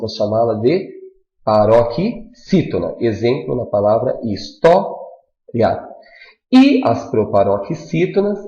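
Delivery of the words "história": "história" with "tó" punched and held apart from "ria"; stress on penultimate syllable. Shown as a demonstration. Teacher showing a paroxytone, stressed "tó" in "história". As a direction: hit "tó" in "história", pause, then let "ria" fall. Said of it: "na penúltima sílaba".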